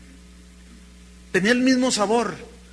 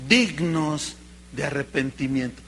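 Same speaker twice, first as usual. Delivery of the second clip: normal talking voice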